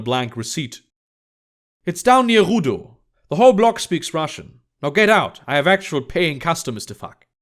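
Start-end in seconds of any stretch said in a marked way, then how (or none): 1.8-7.3 brusque woman's character voice, pitched up at first; brusque Emma. Acted. Emma sends Thaddeus off to see paying customers, brusque. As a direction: give directions, then dismiss him curtly. Emma gives address, dismisses him.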